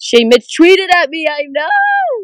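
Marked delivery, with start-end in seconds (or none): 1.5-2.2 loud, very high, breaking voice crack. Announcing that Shay Mitchell tweeted back, voice cracking. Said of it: "What's that voice crack?".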